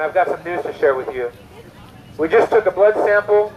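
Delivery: serious doctor. Acted. Doctor breaking cancer news to a patient, serious. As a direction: deliver bad news with a hint of doctor's gravity. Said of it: "he has serious news to tell you".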